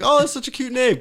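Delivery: mocking gushing. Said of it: "It's like".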